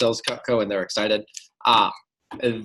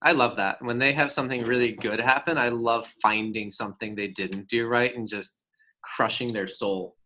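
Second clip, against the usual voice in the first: sarcastic; 3 dB quieter than usual. Real, not acted. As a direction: say it with dry, quiet sarcasm. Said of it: "I say that sarcastically".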